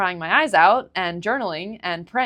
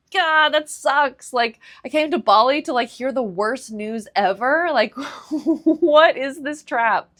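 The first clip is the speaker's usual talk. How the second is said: higher, louder, slow laughing despair; exasperated laughing rant; 7 semitones higher, 5 dB louder than usual. Retold or imitated. Complaining to herself about hearing the worst news in Bali, laughing. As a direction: laugh at how absurd the bad news is.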